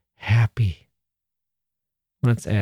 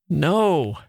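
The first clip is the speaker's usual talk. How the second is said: sobbing; 5 semitones higher than usual. Acted. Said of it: "sobbed Laura".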